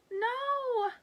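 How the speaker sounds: high, loud defiant no; saying out loud. Acted. Ladybug Girl refusing to give up, loud and high. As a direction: refuse the thought firmly. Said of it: "Ladybug Girl says out loud".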